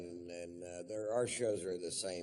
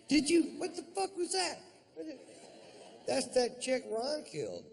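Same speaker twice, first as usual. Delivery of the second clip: much higher, louder frightened yelp; mock startled; 5 dB louder than usual. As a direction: jump out of your skin. Scared people hearing the ghost.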